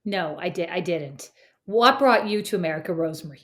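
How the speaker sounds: deliberate, badly faked American accent; best American accent. Shown as a demonstration. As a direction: put on your best attempt at an American accent. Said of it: "speaking to you in my best American accent".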